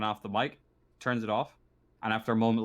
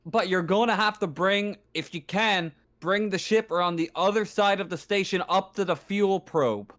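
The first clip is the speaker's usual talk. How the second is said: raised-pitch radio instructions; station operator on comms; 5 semitones higher than usual. Acted. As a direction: lay out instructions over the radio. Game master as station operator instructs.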